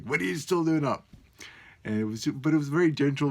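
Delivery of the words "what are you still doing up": a lightly voiced child asking why he's still up; hint of a little daughter's voice; sleepy daughter. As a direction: mimic the kid poking her dad at night. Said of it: "He's like".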